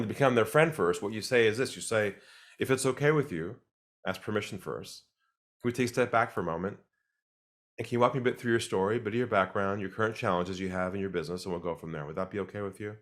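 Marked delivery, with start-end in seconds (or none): 2.6-13.0 calm, centered ask. Shown as a demonstration. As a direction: ease them in gently, no pressure. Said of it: "Half of this is delivery".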